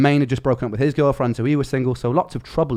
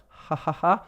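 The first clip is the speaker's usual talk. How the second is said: a dry, forced ha ha ha; polite fake laugh; 4 semitones higher, slower than usual. Awkward polite laugh at the flatmate's joke. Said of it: "I laughed out of politeness".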